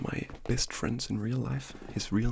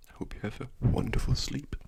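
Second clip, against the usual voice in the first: ASMR whisper. Acted. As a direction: whisper good night gently, like ASMR.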